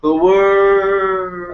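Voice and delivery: high, loud, echoing "worst" as if falling; down a well. Shown as a demonstration. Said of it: "you're dropping down a well".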